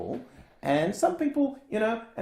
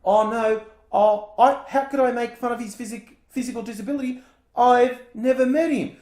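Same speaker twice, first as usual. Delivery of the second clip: higher, louder, whining fake apology; whiny fake innocence; 5 semitones higher, 3 dB louder than usual. Host mocking Trump's weak denial, whining high. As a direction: play Trump pleading innocence like a wimp. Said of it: "he went origami and he folded".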